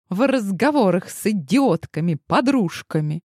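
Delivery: high, shrill raging taunt; raging fury. A narrator's reading. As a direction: lash out like a fury. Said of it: "разошедшаяся фурия".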